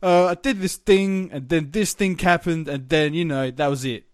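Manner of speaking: mock a guest who tells stories badly; mocking a dull storyteller. Imitating the two boring guests' flat storytelling to his co-host. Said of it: "The other two are like".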